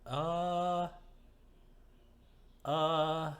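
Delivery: high, loud stunned stammer. Acted. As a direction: gape and stammer. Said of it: "her mouth is fully dropped".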